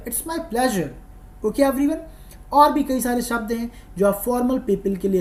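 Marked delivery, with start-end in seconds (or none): 0.1-0.9 "pleasure" said smoothly as ple-zher; correct pronunciation. Shown as a demonstration. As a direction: model "pleasure" in the full phrase. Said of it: "जो मैं बोल रहा हूँ".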